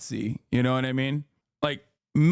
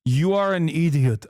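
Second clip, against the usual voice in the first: mock angry read; 2 semitones higher, 4 dB louder than usual. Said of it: "started off the conversation with".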